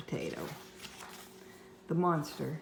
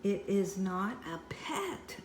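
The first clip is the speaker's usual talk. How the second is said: yelled; 4 semitones higher, slower than usual. Acted. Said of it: "I yelled back".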